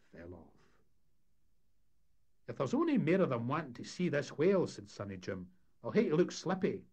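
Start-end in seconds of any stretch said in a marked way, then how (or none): 2.5-6.8 higher, louder Scots deckhand; cheeky young crewman grumbling about visitors; a raised, brash Scots lad; Sonny Jim voice. Acted. Young deckhand character talking.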